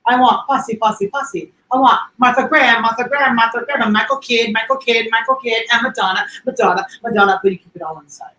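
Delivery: lightly voiced director; movie quote. Quoting The Birdcage director, mild flamboyance. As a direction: rattle off the names with a touch of flair. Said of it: "The Birdcage".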